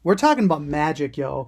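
cocky mock host announcement; casual swagger, dropping at the end; imitated confidence. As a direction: announce it like you own it. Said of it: "you sounded, like, so confident".

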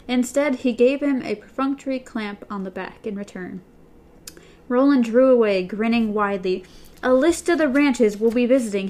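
reading a novel aloud to listeners; steady read-aloud storytelling voice; audiobook-style reading; story narration. A narrator's reading.

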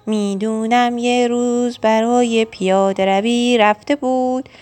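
measured verse reading with stretched words; poem recital. Acted. New poet reciting a rhyme about a friend, poem recital. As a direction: recite your own verse deliberately.

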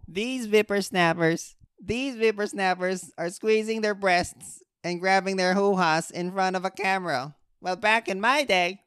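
lightly voiced cranky cartoon geezer; a hint of a grumbling old prospector; cartoon old man. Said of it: "I sound like an old man from some nineties Hanna-Barbera cartoon".

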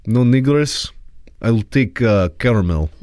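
mock Russian accent. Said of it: "Do a Russian accent".

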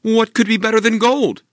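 a hopeful mother asking sweetly; mother's voice. Acted. Mother asking Jack about the cow, high and eager. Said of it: "the mother asked".

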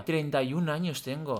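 quiet, half-sobbing lament; mock lament. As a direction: whimper it in mock despair. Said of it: "yo le decía". (lamento fingido y quejumbroso)

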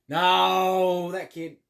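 sudden loud, high no; surprised outburst. Real, not acted. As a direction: blurt it out in shock. Surprise at seeing the photo.

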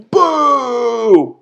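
high, drawn-out boo; imitated crowd boo. Podcaster imitating the crowd as the show ends, booing. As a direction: let a mock boo ring out and fall. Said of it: "all you hear is".

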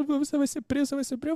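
high-pitched mock crying warning; imitated tearful wailing. Wife warning her husband about jail, retold as a high tearful plea. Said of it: "E ela chorando já".

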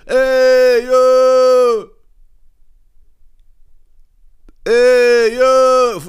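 high, drawn-out holler; mock screaming at window. Man on the sidewalk calls up to the balcony, high mock holler. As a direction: imitate a guy hollering up to a balcony. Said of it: "Fucking screaming at the window".

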